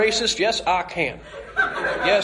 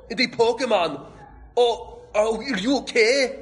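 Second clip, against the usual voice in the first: a higher, excited girl's voice, only lightly put on; lightly voiced Misty; 6 semitones higher than usual. Misty finding the kid and the Pokemon by her bike, lightly voiced excited girl. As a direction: play Misty coming across the crash, excited and concerned. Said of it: "when Misty comes in".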